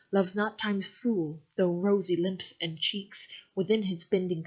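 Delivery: measured recital of the sonnet; unhurried poetry reading; poem reading. Acted. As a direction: read it like verse, steady and even. Reads a Shakespeare sonnet aloud.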